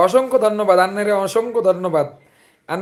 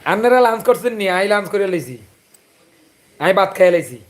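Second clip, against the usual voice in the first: Chandpur dialect. Shown as a demonstration. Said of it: "অবশ্যই বলবো".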